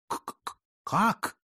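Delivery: a whispered stutter breaking into a high how; stammering shock. Acted. Jesuits stunned at Putilin's reveal, stammering. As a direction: choke on the first sound.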